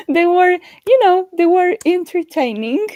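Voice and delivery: laughing. Real, not acted. Speaker laughing to co-host about the book's characters, giggly. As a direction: laugh it out while hedging.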